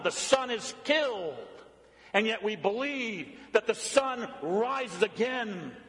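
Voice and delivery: emphatic creed-like pulpit proclamation; impassioned preaching. Acted. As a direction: declare each phrase firmly to the congregation.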